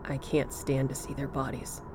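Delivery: quiet sorrow of a ghostly bear; sad bear voice. A narrator's reading. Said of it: "The teddy bear said".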